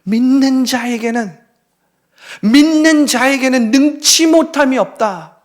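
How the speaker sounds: slow declaration. Acted. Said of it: "예수님 말씀하십니다".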